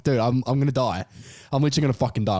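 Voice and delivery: put-on teen in the car, sure he'll die; panicked. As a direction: freak out to your mate. Panicking to his mate.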